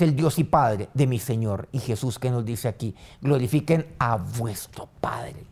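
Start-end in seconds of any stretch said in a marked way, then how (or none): 3.2-5.4 whisper. Acted. Quoting Jesus, hushed and slow.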